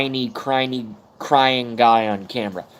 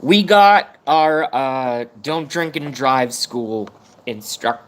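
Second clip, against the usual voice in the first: fighting back tears, halting and drawn out; choking up; 3 dB louder, slower than usual. Real, not acted. Streamer trying to talk about the class instructor, choked up. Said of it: "See, I'm being a bitch".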